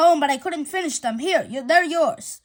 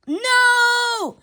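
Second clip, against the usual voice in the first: a loud, high, anguished cry of no; primal scream; 7 semitones higher, 4 dB louder than usual. Acted. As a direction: howl it out like the world just ended. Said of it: "a primal scream".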